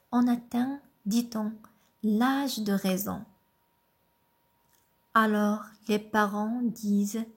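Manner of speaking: poem reading. Acted. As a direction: recite it gently, pausing after each line. Lit le poème L'âge de raison. (lecture douce et posée d'un poème)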